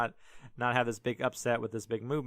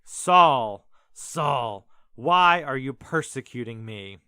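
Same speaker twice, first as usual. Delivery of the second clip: loud booming call from the sky; a voice thundering from heaven; voice yelling out; 8 dB louder, slower than usual. Retold or imitated. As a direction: call down his name loud. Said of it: "and a voice yells out".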